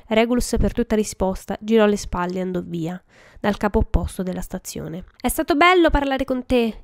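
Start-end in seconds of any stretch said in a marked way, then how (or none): 5.2-6.8 higher-pitched mock call-out; acted parting shout, not full volume; yelled after someone. A narrator's reading. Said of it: "gli urlò dietro James".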